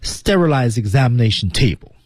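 final d of "Sterilized" held back unreleased; lost plosive. Shown as a demonstration. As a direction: glide from "Sterilized" into "examination" without popping the d. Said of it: "十九爆破". (“Sterilized”词尾失去爆破)

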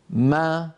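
"ما" with lips parting from m into a long open aa; demonstrating open meem. Shown as a demonstration. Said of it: "فلما تتباعد الشفتان".

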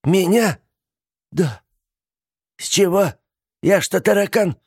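high, loud offended questions; indignant. A narrator's reading. Aunt offended her niece fears her, indignant. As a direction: bristle at the insult.

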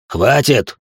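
tense, jittery shout of stop; nervous. A narrator's reading. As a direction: snap it out on edge, scared. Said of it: "нервно сказал качок".

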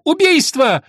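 high, loud cry of murder; a desperate lord yelling murder; shout. A narrator's reading. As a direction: scream it as you lunge at him. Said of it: "бросаясь на него с криком".

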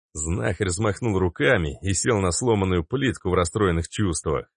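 plain reading voice

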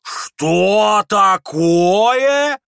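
very high, loud, very slow drawl; drawn-out horror. Acted. Mother to the prince, drawn-out appalled cry. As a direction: stretch it out aghast. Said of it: "протянула".

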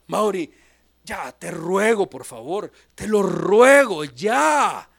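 exasperated plea. Retold or imitated. Paul pleading with the preacher.

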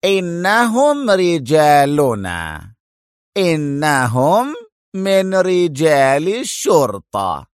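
slow, high, emphatic revelation; severe, drawn-out pronouncement with heavy pauses; stern. A narrator's reading. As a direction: spell it out sternly, each phrase stretched. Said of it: "وهو يقول في صرامة".

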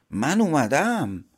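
slow, loud, high demon cry; demon's shout. A narrator's reading. Demon shouts at the couple's door, slow and loud. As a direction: boom out the arrival slowly. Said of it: "دیو دوباره فریاد زد".

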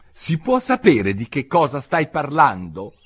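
lightly voiced girl, insisting; puzzled Alice. A narrator's reading. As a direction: ask it high and impatient. Alice demands an explanation.

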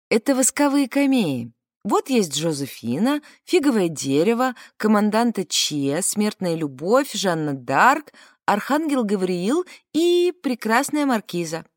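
lively. Retold or imitated. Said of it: "Я оживлённо".

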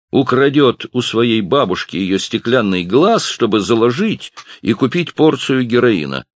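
high and loud, showing him off to the barman; loud mocking bully. A narrator's reading. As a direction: sneer for the bartender's benefit. Bully mocks Ralph to barman. (парень громко высмеивает Ральфа перед барменом)

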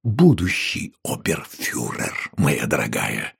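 Будущий stressed slowly, low and firm; emphatic. A narrator's reading. Innkeeper to wife, slow pointed emphasis. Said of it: "с нажимом сказал трактирщик".

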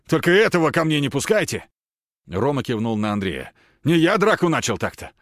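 high, loud defensive protest. Acted. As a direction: defend yourself loudly. Roma protesting about Andrei.

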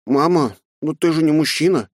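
put-on high puzzled boy; surprised child. A narrator's reading. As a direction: innocent boyish surprise. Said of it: "удивился Фил". (удивлённый мальчик)

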